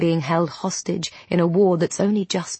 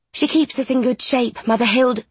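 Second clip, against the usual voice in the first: gruff nun voice; 6 semitones higher than usual. A narrator's reading. Catherine voiced.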